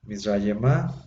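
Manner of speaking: Mizrayemá with a rising final a and nothing after it; teacher repeats Mizrayemá with the pure a; Hebrew ending a. Shown as a demonstration. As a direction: end Mizrayemá on a clean a. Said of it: "nada más se pronuncia la pura A".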